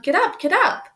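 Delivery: high, loud, near tears; frustrated shout. A narrator's reading. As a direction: shout at the stuck team, fed up. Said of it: "He shouted".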